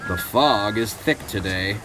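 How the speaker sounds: slow, measured warning in Edward's voice; cautioning. Acted. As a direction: warn a friend, understated. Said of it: "Edward warned".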